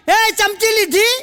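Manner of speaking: calling out. Retold or imitated. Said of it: "જોરથી બૂમ પાડી".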